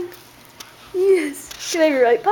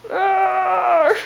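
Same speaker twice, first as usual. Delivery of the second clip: drawn-out mock growl; playful growl; 4 semitones higher than usual.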